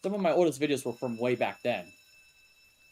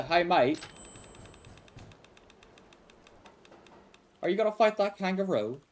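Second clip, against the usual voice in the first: lightly done Australian accent; 4 semitones higher than usual. Shown as a demonstration. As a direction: attempt a casual Aussie accent. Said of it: "Aussies are easy to do".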